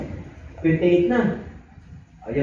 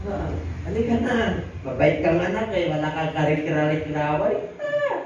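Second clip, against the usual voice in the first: pleading father; 2 semitones higher than usual. Acted. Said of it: "nakiusap pa yung tatay".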